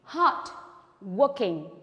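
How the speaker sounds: teacher modelling the word; model reading. Shown as a demonstration. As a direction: say it clearly for the class to repeat.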